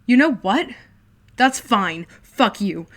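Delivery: loud furious yelling; boy yelling as he packs to leave; angry shouting. Acted. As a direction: yell while storming off. Shouting while packing.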